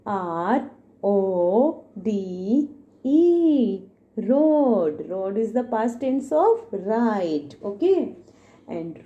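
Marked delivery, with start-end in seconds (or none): 0.1-3.8 spelling out letters. Shown as a demonstration. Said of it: "Next word is".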